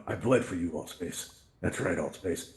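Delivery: dramatic hammed-up rage oath; mock rage. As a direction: growl it like a hammed-up war cry. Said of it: "get my rage on".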